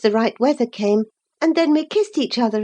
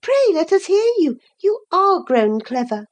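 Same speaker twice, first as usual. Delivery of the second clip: eager; 4 semitones higher than usual. Acted. Girl eagerly urging Hareton.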